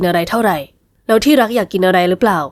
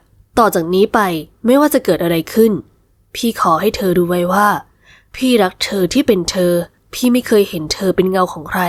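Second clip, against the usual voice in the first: a lightly voiced man, lower and unhurried; tender husband's vow; 4 semitones lower than usual. Husband vowing love to his wife, lightly lowered tender voice.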